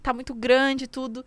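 voz mais aguda de susto fingido; espanto imitado. Retold or imitated. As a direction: finge pânico com o peito. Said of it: "Aí eu falava". (espanto aflito imitado, mais agudo)

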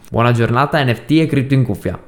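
stuffy, nasal early-morning voice; slightly nasal, blocked-nose sound. Real, not acted. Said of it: "Scusa la voce un po' nasale".

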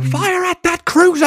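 high, slow, drawn-out military yell; shouted battle command. Acted. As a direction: bellow it like a hammed-up commander. Mimics the film villain's command.

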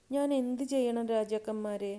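high, loud plea with a touch of tremor; quavering old woman. A narrator's reading. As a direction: ask as a lightly voiced, trembling old woman. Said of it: "വിറയൽ കലർന്ന സ്വരത്തിൽ". (വിറയൽ കലർന്ന വൃദ്ധസ്വരം)

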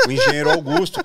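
ordinary delivery

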